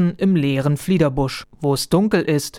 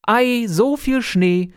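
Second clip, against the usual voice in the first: higher, slow delighted exclamation; delighted call; 7 semitones higher, slower than usual. Acted. Boy at window sees snow, delighted call. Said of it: "rief er".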